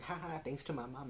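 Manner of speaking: high, mock-gleeful newborn; joking baby voice. Baby thanking mom who drank wine, joking baby voice.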